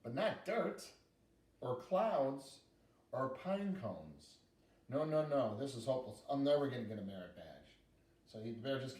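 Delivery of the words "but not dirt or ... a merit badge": a hint of a fretting little girl, higher at the start. Girl losing hope of her merit badge, lightly voiced. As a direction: play the girl giving up on the bear.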